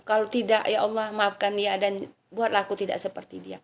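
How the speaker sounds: rhythmic chanted invocation; prayerful dhikr. Shown as a demonstration. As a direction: pray it out as a heartfelt supplication. Leads sample dhikr and prayers.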